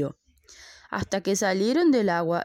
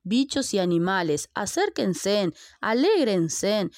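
a flea ringmaster opening the show; circus announcer; 2 semitones higher than usual. Acted. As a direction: call out to the audience like a showman.

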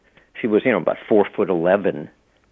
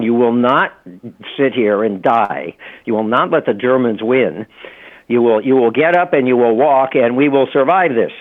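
emphatic, insistent imitation of an order; retold firm command; 2 semitones higher, 4 dB louder than usual. Son retells his mother rallying a woman in the camps, firm command. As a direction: press each clause home, mildly forceful.

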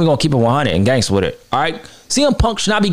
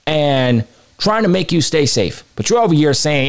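ordinary talk

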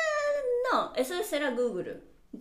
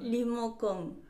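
Rimocon slowed, ri-mo-con spelled out syllable by syllable; slow repeat; 4 dB quieter, slower than usual. Shown as a demonstration. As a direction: repeat Rimocon slowly for a confused learner. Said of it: "Esto es muy difícil".

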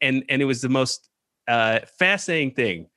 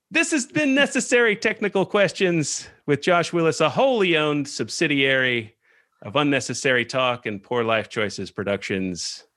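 mock announcer sign-off. Host signs off Necessary Technical Questions, mock announcer read. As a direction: read it like official end-of-show credits.

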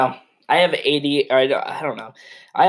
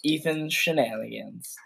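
a softer whispered aside; stage whisper; 6 dB quieter than usual. Acted. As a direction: lean in and whisper it. Whispered aside about Ethan.

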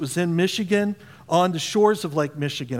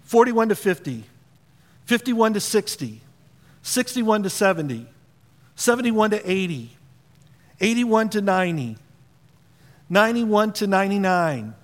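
lightly voiced auctioneer calling numbers; 3 semitones higher than usual. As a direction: count the ranges up like an auction. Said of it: "I sound like an auctioneer here".

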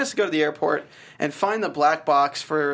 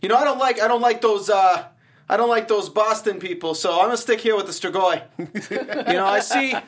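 attempted New York accent; 3 semitones higher than usual. Reluctant New Yorker refusing to leave for Boston, attempted New York accent. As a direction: have a shaky go at New York talk. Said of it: "I don't know how to do a New York accent".

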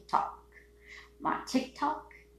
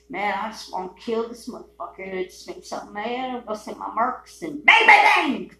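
mock killer rage; 3 dB louder than usual.

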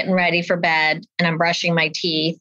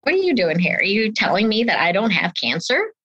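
alarmed; 2 semitones higher than usual. Retold or imitated. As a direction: blurt it out in alarm. Retold alarm at doctor's visit.

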